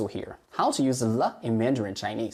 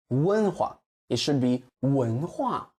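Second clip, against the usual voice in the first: 文化 with the weight on 化, held long; correct stress on 文化. Shown as a demonstration. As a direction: stress 文化 with the second syllable held.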